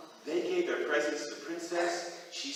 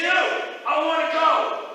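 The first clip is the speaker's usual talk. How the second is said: high pleading Jack; 13 semitones higher, 10 dB louder, slower than usual. Acted.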